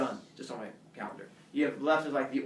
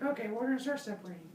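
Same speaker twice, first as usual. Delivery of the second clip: high, quick dopey human voice; voz alta y rápida de humano tonto; dim human voice; 9 semitones higher, 3 dB quieter, faster than usual. Acted. Humans voiced in retold myth.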